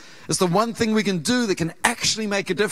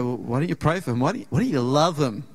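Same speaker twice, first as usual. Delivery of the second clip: lower, lightly voiced God; a hint of a patient divine voice, lower; gentle voice of God; 5 semitones lower than usual. God gently asking the pastor to love Tim, lower and calm. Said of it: "And I felt God say".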